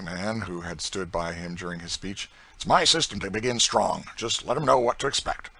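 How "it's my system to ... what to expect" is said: loud, swaggering slave driver; coarse boasting planter. Acted. Planter bragging to a stranger about his system, loud and swaggering. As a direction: brag it out loud and hard.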